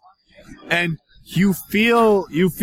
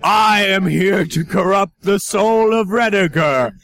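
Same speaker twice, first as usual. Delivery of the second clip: evil queen. Acted. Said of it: "let the table speak".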